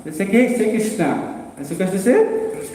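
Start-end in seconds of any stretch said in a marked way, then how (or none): 0.2-1.5 high, slow coaxing; coaxing teacher. Retold or imitated. Radharani coaxes her parrot to say Krishna, high and slow. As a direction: coax the parrot to speak.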